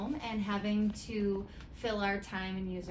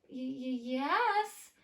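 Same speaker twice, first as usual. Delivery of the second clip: startled stutter, then higher yes; hesitant stammer; 4 semitones higher, much slower than usual. Acted. Gertie answering the tin can phone, surprised stammer.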